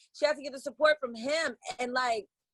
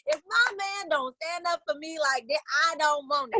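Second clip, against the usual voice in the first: high-pitched retold indignation; indignant quote; 6 semitones higher than usual. Reacting to a husband standing up for his wife, mock indignant.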